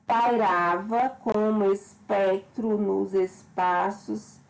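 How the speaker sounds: slow, measured recital of the verse; poem reading. Acted. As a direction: read the stanza slowly like a poem. Reads the poem stanza aloud. (leitura lenta e expressiva de poema)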